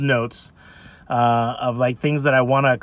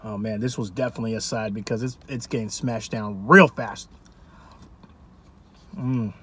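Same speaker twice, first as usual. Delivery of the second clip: eating while speaking; talking between spoonfuls; 4 semitones lower, 7 dB quieter than usual. Real, not acted. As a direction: food near the lips. Seen 0: Scoops from cup with spoon, brings it to mouth.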